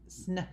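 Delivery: SNAKE split after "sn", the A held very long; long, strong A. Shown as a demonstration. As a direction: stretch the A in snake on and on. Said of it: "it's so long and strong".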